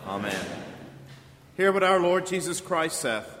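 ordinary talk

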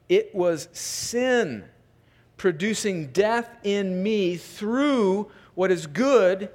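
slow, weighted reading broken by pauses; scripture reading. Real, not acted. Pastor reads verse thirteen aloud, deliberate scripture reading. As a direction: draw out the key words of the verse.

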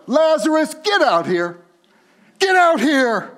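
loud, high call; casual loud yell. Acted. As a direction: holler him out of the tomb. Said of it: "maybe in our vernacular".

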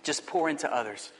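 measured, expressive poem read with voiced vessels. Pastor reading a poem to his church, expressive and measured. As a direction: read the poem to the congregation like a story.

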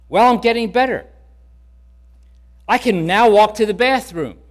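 lightly voiced elderly woman, pleased; old lady Emma.

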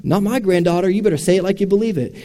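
imitating a stern patriarch's correction; demanding grandfather. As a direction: push the suitor for conviction. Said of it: "And you said".

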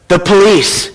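lightly voiced little boy, falling tune; whispering small child. Small boy telling caller who is there, hushed child voice. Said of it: "a small voice whispered".

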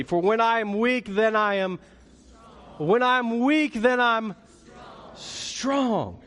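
chanting the line with the congregation; call and response. Shown as a demonstration. Preacher leading the church to repeat the verse, chanted. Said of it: "say this with me".

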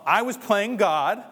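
slow, emphatic admission; emphatic confession. Retold or imitated. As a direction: lean hard into each word. Confessing own sin emphatically.

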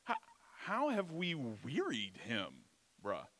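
a hint of a whiny entitled teen; whiny teenager voice. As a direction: lightly whine it like a bratty preteen. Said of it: "whiny, petulant ... teenager voice".

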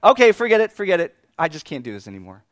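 loud, high fed-up quitting; exasperated outburst. Retold or imitated. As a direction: throw up your hands in defeat. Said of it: "I was just like".

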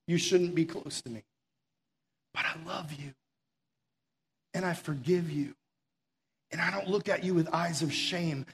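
a hushed, forgiving whisper-soft reassurance; tender voice of God. Acted. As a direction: speak as a loving God reassuring a guilty listener. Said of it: "What a beautiful voice".

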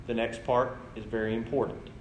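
retold dad, deliberate and composed; calm voice. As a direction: break it to the daughter calmly. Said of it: "calm voice".

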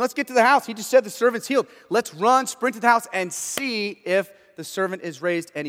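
excited crowd. Retold or imitated. Crowd urging to run.

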